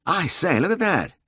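high-pitched cry of concern; startled lordly exclamation; cried exclamation. A narrator's reading. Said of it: "cried the peer".

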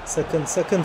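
quiet, tense repeated "Sakın"; low warning. Real, not acted. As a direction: warn under your breath. Warning as rival threatens goal.

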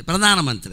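no breath on the "dha" of ప్రధానమంత్రి; missing aspiration. Shown as a demonstration. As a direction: say ప్రధానమంత్రి as pradaana-mantri. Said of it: "ఒత్తులు ఉండవు ఇక్కడ".

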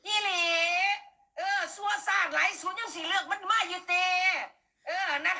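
real tearful outcry, voice breaking; crying shout. Real, not acted. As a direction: cry it out, angry and hurt. Angry rant breaking into tears.

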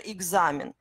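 examen with g-z in place of k-s; voiced consonant. Shown as a demonstration. Teacher giving an example of the reverse, voiced consonant. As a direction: say "examen" as eg-za-men. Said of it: "on prononce comme g".

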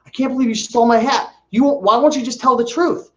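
garage sale woman insisting he lied, mock whine; mock indignant lady. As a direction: imitate a stranger who won't drop it. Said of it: "she's like".

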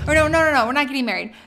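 laughing loud denial; loud quick correction. Real, not acted. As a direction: scramble to take it back.

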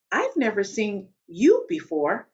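coworker's pointed remark, with weight on "you"; stress on YOU. Retold or imitated. To a Black woman in the elevator, stress on "you". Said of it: "the emphasis here is on the word you".

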